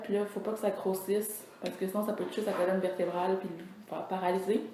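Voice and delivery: talking through a mouthful of food; chewing while talking. Real, not acted. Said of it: "je vais vous parler tout en mangeant". (en mâchant, la bouche pleine)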